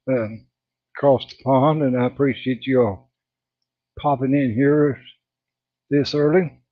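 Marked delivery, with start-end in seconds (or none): 1.8-6.6 breathless, catching air between words; out of breath. Real, not acted. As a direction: talk while winded. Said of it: "I'm out of breath again".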